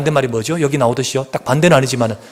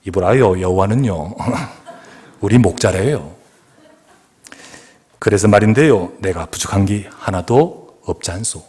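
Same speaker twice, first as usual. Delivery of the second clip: 웃음 섞인 강원도 사투리 흉내; Gangwon dialect; 4 semitones lower than usual. Retold or imitated. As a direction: Gangwon accent, laughing through it. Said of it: "강원도는 사람은요". (강원도 사투리, 웃으며)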